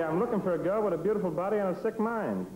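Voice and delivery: mock line in the photographer's tiny voice; Ouija's little voice. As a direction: chirp it up like the little man on the set. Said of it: "and he'd say".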